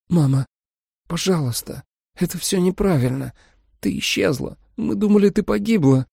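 hurt daughter pleading. A narrator's reading. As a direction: beg her mother to stop.

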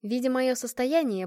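ordinary delivery, nothing marked

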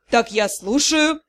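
slow vampire hiss. A narrator's reading. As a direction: hiss it out coldly and slowly. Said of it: "прошипел вампир". (прошипеть медленно)

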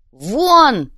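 loud sharp shout. A narrator's reading. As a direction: bark the single word. Banker throws them out.

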